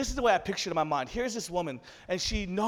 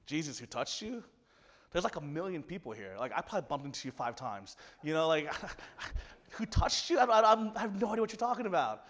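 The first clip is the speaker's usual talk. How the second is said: incredulous disciples; 4 semitones lower, 5 dB quieter than usual. Retold or imitated.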